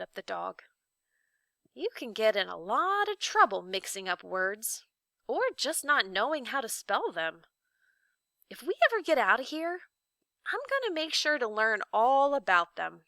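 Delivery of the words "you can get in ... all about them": lightly voiced young boy, resolved; a boy making a promise to himself; Milo, earnest boy. Milo vows to Talk to learn words, lightly voiced.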